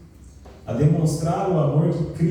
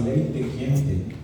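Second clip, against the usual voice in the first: put-on Paraná accent. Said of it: "eu tava falando igual paranaense".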